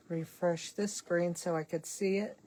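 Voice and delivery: talking through a yawn. Real, not acted. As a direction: yawn as you speak. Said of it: "You can just hear me yawn".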